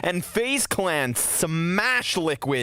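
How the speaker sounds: excited play-by-play. Real, not acted. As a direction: pitch climbing on the big play. Excited call of a round win.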